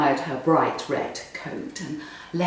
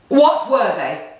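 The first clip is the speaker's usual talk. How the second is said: barked; 3 semitones higher, 5 dB louder than usual. Acted. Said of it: "he barked".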